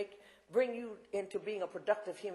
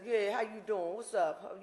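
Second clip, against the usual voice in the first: lightly voiced tough guy on the phone; imitated hardened inmate; slower than usual. Hardened young inmate greeting the speaker by phone, lightly imitated swagger. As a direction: put on a hint of prison swagger. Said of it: "this is how he's talking now".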